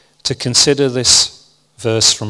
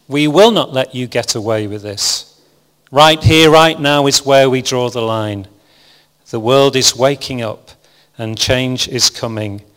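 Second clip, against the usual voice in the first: impassioned rebuke; 4 dB louder than usual. Retold or imitated. Jesus imagined rebuking the uncaring, loud slow outrage fading. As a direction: preach it as a furious call-out, then settle down. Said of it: "maybe it went something like this".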